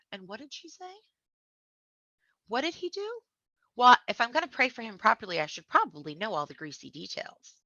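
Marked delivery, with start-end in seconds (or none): 0.1-5.4 mock gossip voice. Mocking gossipy church members.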